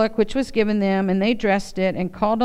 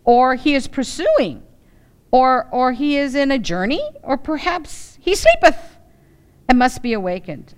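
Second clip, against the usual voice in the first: loud, much higher taunting jeer; mocking taunt; 5 semitones higher, 4 dB louder than usual. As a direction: goad them to shout louder. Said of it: "this is how he's mocking him".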